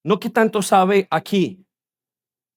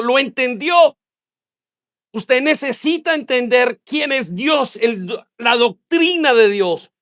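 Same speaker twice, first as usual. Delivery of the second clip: higher-pitched, insistent sermon; impassioned preaching; 5 semitones higher than usual. Acted. Preacher urging congregation to understand God's doctrine, impassioned. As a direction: drive the point home from the pulpit.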